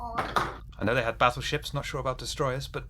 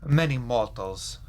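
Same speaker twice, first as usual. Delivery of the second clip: bad European accent; 4 dB louder than usual. Vampire Sergei to the players, hammed-up European accent. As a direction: lean into a clumsy European accent. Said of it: "I'm so sorry about this fucking accent".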